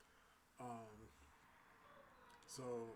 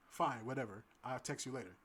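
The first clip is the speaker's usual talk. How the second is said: huffy brush-off; 9 dB louder than usual. Retold or imitated. Date brushing him off.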